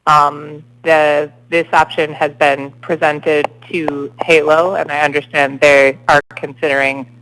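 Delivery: slow, deliberate official explanation; speaking very slowly. Real, not acted. Official to members struggling to hear by phone, speaking very slowly. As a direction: spell it out slowly, phrase by phrase, with pauses. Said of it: "I'm speaking very slowly".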